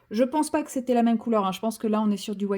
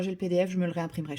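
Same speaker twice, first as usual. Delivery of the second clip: ordinary talk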